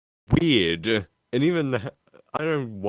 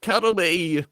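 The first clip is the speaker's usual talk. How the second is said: high-pitched creepy doll, louder and slower on the repeat; Australian woman doll voice; 11 semitones higher, 6 dB louder, slower than usual. Retold or imitated. Horror doll demanding affection from a kid, mock screaming woman voice. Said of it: "like, thirty-year-old woman voice".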